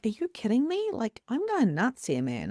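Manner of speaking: mock disbelief at one's own mind; going nuts. Hearing angels in a shop, mock incredulous. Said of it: "I'm nuts type of energy".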